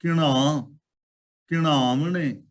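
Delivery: ਘਿਣਾ then ਘਿਣਾਵਣੇ, both with retroflex ṇ; correct pronunciation. Shown as a demonstration. Preacher drills the congregation on ਘਿਣਾਵਣੇ with retroflex ṇ. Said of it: "ਨਾਣੇ ਨੂੰ ਨਾਣਾ ਬੋਲਣਾ ਹੈ".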